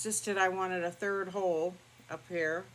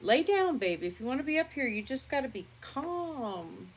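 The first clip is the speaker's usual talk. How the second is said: soothing the dog; 6 semitones higher than usual. Real, not acted.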